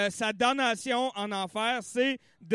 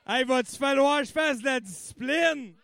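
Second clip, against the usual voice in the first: ordinary talk, nothing marked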